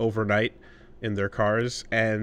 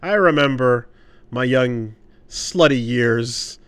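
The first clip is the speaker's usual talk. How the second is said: louder, slow, hammed-up nostalgic westerner; a touch of a boastful local reminiscing; mock local; 7 dB louder, slower than usual. Imagined westerner recalling Montreal.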